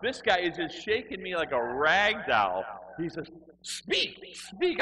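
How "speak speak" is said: very high, loud strained cry; zealot's demand. Retold or imitated. Zealot shaking him to speak, high loud mock command. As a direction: screech the order like a mock zealot.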